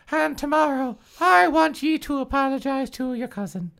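stern mother. Acted. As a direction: scolds her daughter with a firm tone. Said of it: "Missus Morgan said sternly".

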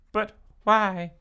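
high plaintive question; crying out. Acted. Tracy questions the costume trade, crying out. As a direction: ask it in mild anguish. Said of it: "Tracy cried".

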